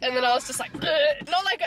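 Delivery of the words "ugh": mock "ugh" of being sick, louder and higher; loud pretend heave; imitated retch. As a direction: act out bringing up phlegm. Imitating herself spitting up after workout.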